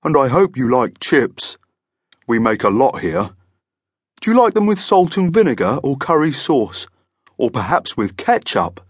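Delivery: chatty, friendly monster voice. A narrator's reading. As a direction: chat away as a genial monster boss. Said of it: "he continued chattily".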